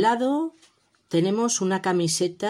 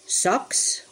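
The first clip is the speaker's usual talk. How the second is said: 1 whispered recap word. Shown as a demonstration. Recap of the vocabulary words.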